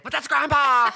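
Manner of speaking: mock confused daughter, laughing; laughing quote. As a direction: blurt the line out while laughing. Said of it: "And she's like".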